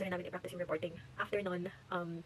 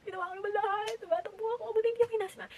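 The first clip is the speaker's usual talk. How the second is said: breathless; 11 semitones higher than usual. Retold or imitated. Retelling the run, far high.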